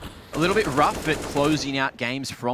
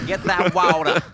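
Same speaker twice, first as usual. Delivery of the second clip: slow, louder put-on American "water"; wandering American accent; 4 semitones higher, 7 dB louder than usual. Shown as a demonstration. Caster joins the accent joke, hammed-up American accent. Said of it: "Those accents just jumped all around America".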